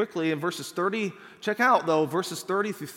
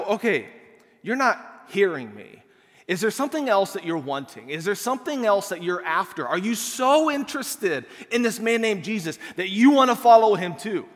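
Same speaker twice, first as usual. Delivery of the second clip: mock-sarcastic, rising and louder toward the end; a little sarcastic; 3 dB louder than usual. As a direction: needle the Pharisees, lightly mocking. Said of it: "this man kind of says this a little bit sarcastic".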